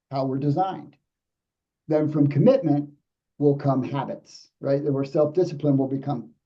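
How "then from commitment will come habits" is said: slow walk through the steps; slow play. Shown as a demonstration. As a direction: pause midway, then land it slowly. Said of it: "let me slow play it".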